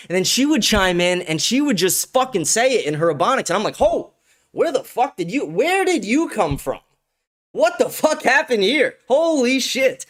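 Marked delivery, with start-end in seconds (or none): 3.8-10.0 high, slow, amazed exclaim; retold flabbergasted outburst; stunned disbelief. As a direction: react like your jaw just dropped. Amazed reaction to her smart points.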